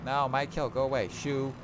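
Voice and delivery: shooing off greedy teammates; playful outrage, slow on greedy; mock indignant. Real, not acted. Shooing players off his kill.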